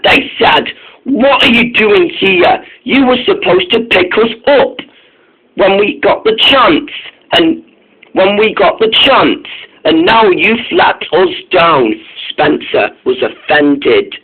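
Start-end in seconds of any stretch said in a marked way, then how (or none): 1.0-11.9 higher, lightly scolding complaint; mildly annoyed. Acted. Duke and Duchess scolding Spencer for letting them down, mildly annoyed. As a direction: tell him off without real heat. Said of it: "The Duke and Duchess were annoyed".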